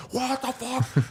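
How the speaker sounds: high, drawn-out indignant disbelief; mock outrage. Cokehead pelted with popcorn, mock outraged. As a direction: stretch it out, hammed-up and affronted. Retold heckler hit by popcorn.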